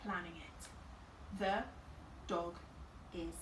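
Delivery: Planning it said slowly and softly; slow quiet thinking aloud. Real, not acted. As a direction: draw out Planning it while thinking. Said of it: "I've got one".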